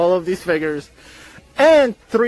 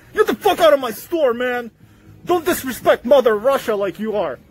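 Russian manager; 3 semitones higher than usual. Acted. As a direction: play an offended manager with a light Russian accent. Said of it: "apparently the manager is Russian, and he's like".

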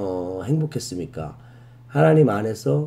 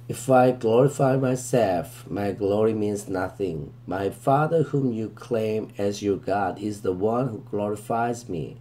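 very slow, deliberate verse reading, word by word; slow scripture reading; much slower than usual. Shown as a demonstration. Teacher reading the verse to students, very slow and deliberate. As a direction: read it out slowly so students can follow.

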